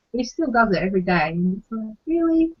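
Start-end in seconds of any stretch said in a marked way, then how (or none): 2.1-2.5 high, disbelieving really; a weary mum's disbelief; incredulous really. Retold or imitated. Exasperated at daily crying.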